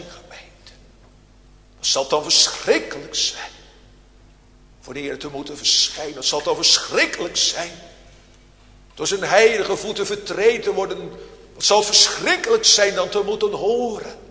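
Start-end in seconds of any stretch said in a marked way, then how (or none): 6.1-11.1 faster, pressing repeat of the warning. Real, not acted. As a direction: drive the repeated question on faster. Preacher repeats warning question.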